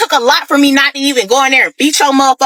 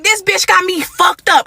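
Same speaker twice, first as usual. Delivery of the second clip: higher-pitched mock fury, held back; retold anger, pitched up; livid; 6 semitones higher than usual. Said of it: "at this point, I'm livid".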